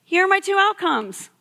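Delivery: easygoing, as if it's no big deal; casual and unbothered. Retold or imitated. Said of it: "He was just like".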